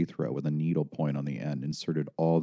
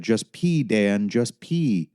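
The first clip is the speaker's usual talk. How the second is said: urging mother; 4 semitones higher, 3 dB louder, much slower than usual. A narrator's reading. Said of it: "she said".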